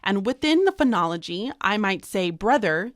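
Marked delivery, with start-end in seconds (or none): 1.6-2.9 teacher sounding out brother into its two beats; syllable-split brother. Shown as a demonstration. Teacher models syllables of brother for students.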